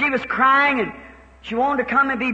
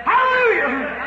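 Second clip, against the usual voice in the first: drawn-out hallelujah; 5 semitones higher, slower than usual. Real, not acted. Preacher exclaims in the anointing.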